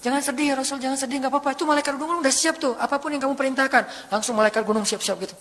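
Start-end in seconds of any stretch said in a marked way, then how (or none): 0.0-4.1 comforting. Acted. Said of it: "jadi menghibur gitu".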